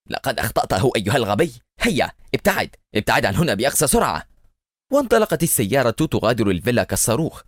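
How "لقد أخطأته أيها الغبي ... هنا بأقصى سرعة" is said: fast, scolding yell; scolding shout. Acted. Eliezer berating his driver who missed, fast scolding. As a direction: snap at the driver to get away. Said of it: "في حين صح إليعازر".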